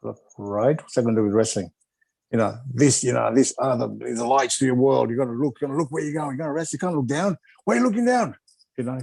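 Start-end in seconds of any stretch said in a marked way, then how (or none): 3.8-9.0 Mister Malenko. Retold or imitated. Retired coach lecturing his young wrestlers, imitated, rising in exasperation. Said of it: "Mister Malenko used to talk like that".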